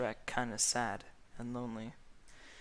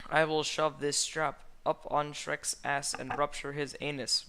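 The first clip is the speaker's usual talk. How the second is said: roar; 4 semitones higher, 5 dB louder than usual. A narrator's reading. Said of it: "roared the dragon".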